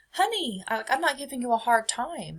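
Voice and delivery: gentle mock of a patient mother; a hint of mom pleading; imitating mom. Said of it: "my mom going".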